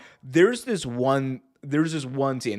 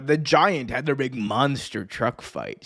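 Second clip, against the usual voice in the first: usual speaking voice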